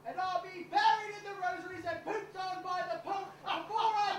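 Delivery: nervous butler bluffing loudly; blustering threat. Acted. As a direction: puff up and bluster at the thug.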